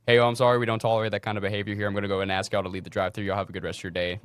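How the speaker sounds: brisk polite customer-service voice; professional manager. Retold or imitated. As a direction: hurry through it, professionally firm. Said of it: "I was like".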